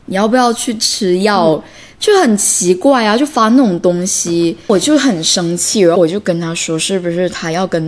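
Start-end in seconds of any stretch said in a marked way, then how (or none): 0.1-1.6 mildly indignant scolding, retold; mock telling-off, measured rather than shouted; retold anger. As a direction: re-enact being fed up with them. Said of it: "我当时就很生气".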